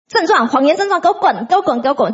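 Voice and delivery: retold commanding yell. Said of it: "这样一直喊啊".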